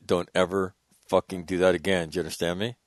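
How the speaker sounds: low, soft officer's warning; retold stern reprimand. Retelling officer dressing down a marine, quietly stern. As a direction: lay down the law without raising your voice.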